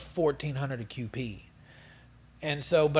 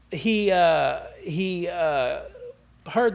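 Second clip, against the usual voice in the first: laughing; 3 semitones higher, 5 dB louder, much slower than usual. Real, not acted. Still laughing after the story.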